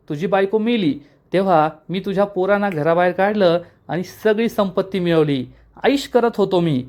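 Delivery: villain brother boasting of ruining the family, lightly voiced; a hint of gloating villain. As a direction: brag about the crime, lightly voiced. Villain confesses his scheme.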